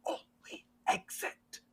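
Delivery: slow voiceless whisper; urgent whisper. Acted. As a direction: whisper it slowly, barely audible. Woman silences player, whispers the way.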